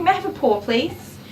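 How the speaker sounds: high, polite coaxing; sweet pet talk. Real, not acted. Groomer asking the dog for a paw, sweet high coaxing. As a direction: ask sweetly, lifting the pitch.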